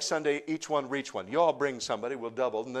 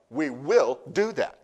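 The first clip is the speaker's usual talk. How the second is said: slow, firm and louder declaration; strong; 3 semitones higher, 11 dB louder, slower than usual. Shown as a demonstration. Pastor declaring to the congregation, strong and slow. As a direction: plant each word with conviction. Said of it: "Let me say it strong".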